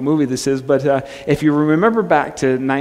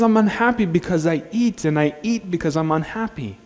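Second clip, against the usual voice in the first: Scottish villain; 4 semitones higher than usual. Retold or imitated. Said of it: "He's got this Scottish accent".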